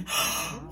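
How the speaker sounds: re-enacted gasp of surprise; startled gasp. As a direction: gasp as if spotting a star. Startled by seeing Kenan Thompson.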